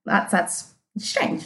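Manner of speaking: slow, breathless whispered disbelief; stunned whisper. Retold or imitated. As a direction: whisper it, too shocked for voice. Stunned reaction to dog head.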